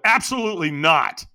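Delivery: mildly angry, emphatic pushback; a little angry. Retold or imitated. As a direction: refuse with a touch of anger. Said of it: "with a little bit of anger in my voice".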